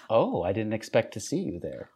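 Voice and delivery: a first stab at a French accent, understated; mock French line. Shown as a demonstration. Co-host tries a line in a light French accent. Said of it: "give me something to say".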